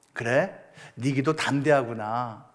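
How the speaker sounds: lightly voiced calm deity; God's voice. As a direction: speak as a patient God to his child. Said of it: "라고 설명해 주시고".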